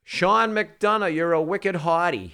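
slow, high hammed-up Boston accent; fake Boston accent. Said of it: "fake Boston accent".

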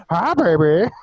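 high squawky bird voice; parrot hi baby. Retold or imitated. Retelling the parrot's greeting, high squawky bird. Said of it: "he goes".

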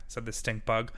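ordinary delivery, nothing marked

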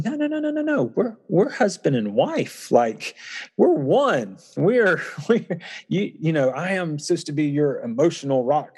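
no-no-no shooting way up, high protesting husband; stunned protest. Retold or imitated. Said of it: "I just remember going".

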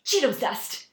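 high, loud, slow exclamation; imitating a gleeful child; excited little girl. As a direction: show it off with childlike glee. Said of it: "this enthusiasm and this excitement".

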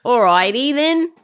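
lightly voiced yobbo tradie; a hint of loutish workman. Shown as a demonstration. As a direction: have a go at a rough tradie. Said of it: "you sound like you're a yobbo".

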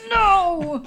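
high, drawn-out laughing wail; long, slow, high-pitched protest; exasperated. Real, not acted. Mock complaint about fumbling party spokesman.

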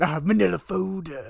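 slow mock impression; Lisa Vanderpump. Co-host echoing a podcast's Lisa Vanderpump impression, slow put-on voice. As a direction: draw it out as an impression. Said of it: "impression of Lisa Vanderpump".

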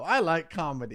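lightly voiced robot; robot imitation. Friend teasing that the accent sounds like a robot, mock robot voice. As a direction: say it stiffly like a robot. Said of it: "That just sounds like a robot".

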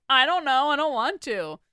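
high, loud protest of reluctance; exaggerated childlike refusal; mock reluctance. Voices own reluctant first impulse.

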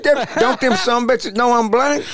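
high indignant voice; indignant outburst. Retold or imitated. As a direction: raise the pitch in outrage. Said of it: "He said".

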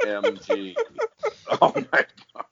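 high shocked shriek; shocked squeal. Real, not acted. Shocked reaction to video.

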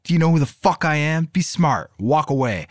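high, threatening South London shout; South London accent. Acted. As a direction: warn them off in a curt South London voice. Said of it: "Jeffrey yelled in his South London accent".

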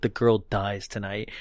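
low, quiet menacing villain; low menacing threat. Retold or imitated. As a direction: growl the threat low and soft. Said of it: "He's like".

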